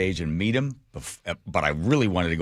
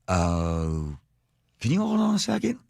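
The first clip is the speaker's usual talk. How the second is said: put-on Southern accent; 2 semitones lower than usual. Camp staffer stalling the auctioneer, lightly Southern. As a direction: imitate a polite Southern staffer, loosely. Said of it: "Southern accent".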